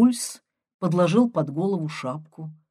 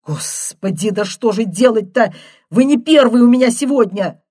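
exasperated; 3 semitones higher, 8 dB louder than usual. Acted. Nurse exasperated at the door.

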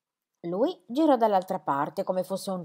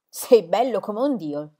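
loud, slow cry of admiration; aunt calling out to the young athlete, slow and loud; shouting praise; 4 dB louder, slower than usual. Acted. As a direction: call it out to him across the crowd. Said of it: "gli urlava zia Demodice".

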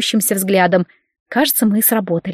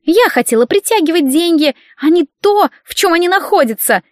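high, tearful, wailing protest; whiny complaint; 8 semitones higher than usual. Acted. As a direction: whine on the edge of sobbing. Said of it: "Елена всхлипнула".

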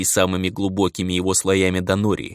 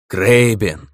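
distant anxious call; 5 dB louder than usual. A narrator's reading. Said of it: "Далёкий взволнованный голос".

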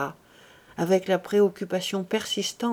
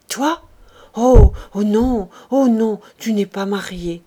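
shocked refusal; 8 dB louder than usual. A narrator's reading. Embarrassed woman refuses her friend's examination, shocked. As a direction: recoil in shock, easing at the end.

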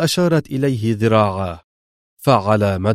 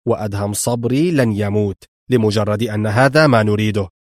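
sharper; 3 semitones lower than usual. Acted. Mr X rebuking Laura, low and cutting. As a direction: correct her coldly and sharply. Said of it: "قال في حدة أكثر".

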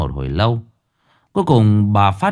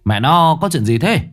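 mild urgent husband. Acted. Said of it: "hỏi dồn vợ".

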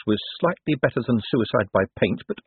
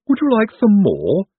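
higher, louder eager henchman; hopeful Igor; 11 semitones higher, 6 dB louder than usual. A narrator's reading. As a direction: offer it hopefully as the servant. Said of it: "looking for some bright edge".

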